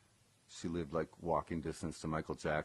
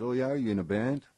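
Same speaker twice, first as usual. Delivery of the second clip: interested question; 6 semitones higher, 6 dB louder than usual. Retold or imitated. Eddie voiced in retold story.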